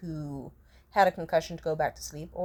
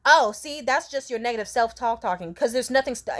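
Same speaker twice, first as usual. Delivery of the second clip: preachy driver; 3 semitones higher, 3 dB louder than usual. Retold or imitated. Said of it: "she started going all sorts of".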